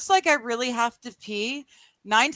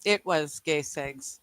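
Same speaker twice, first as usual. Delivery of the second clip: muttered echo; 6 semitones lower, 6 dB quieter, much slower than usual. Retold or imitated. Echoing the quote, quietly.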